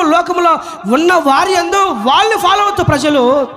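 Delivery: high, driving sermon delivery; preaching at full force. Real, not acted. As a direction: preach it hard, ringing out each phrase. (ఉద్వేగంతో గట్టి ప్రసంగం)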